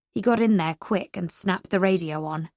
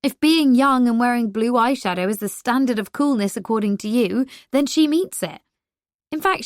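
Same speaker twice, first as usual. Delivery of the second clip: playful teasing; 4 semitones higher, 3 dB louder than usual. Acted. Teasing enthusiastic defense.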